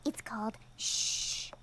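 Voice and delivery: slow, hushed whisper of the game's name. Acted. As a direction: whisper it like a secret. Introduces the quiet game.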